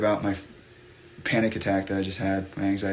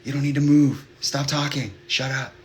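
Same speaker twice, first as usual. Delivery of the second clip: talking to oneself; 5 semitones higher than usual. Retold or imitated. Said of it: "talking to myself, like".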